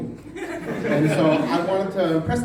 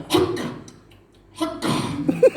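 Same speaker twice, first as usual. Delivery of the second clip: rugby cheer; 11 semitones higher, much slower than usual. Retold or imitated. Father-in-law cheering the rugby kickoff, shouted. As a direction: bark it like a rugby fan on the couch.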